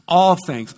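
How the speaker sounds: "all" hit harder, repeated for emphasis; stress on all. Real, not acted. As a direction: punch the word "all". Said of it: "I can't emphasize that word all enough".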